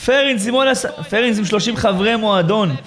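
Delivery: excited shout-out. Real, not acted. Shouts out gifter's name.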